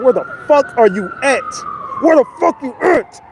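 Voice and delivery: mock outraged questioning; retold angry demand. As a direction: act out an angry where-are-you call. Retold angry phone call from boss.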